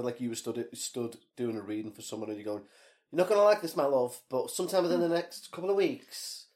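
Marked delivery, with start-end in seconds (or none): 3.1-6.5 lightly voiced fortune teller; soothing clairvoyant, a touch high; psychic reader. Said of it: "you sounded like a psychic reader".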